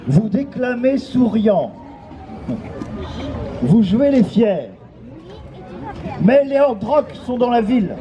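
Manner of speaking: grand theatrical declaiming; hammy stage actor. Acted. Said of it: "je vais doubler la rime".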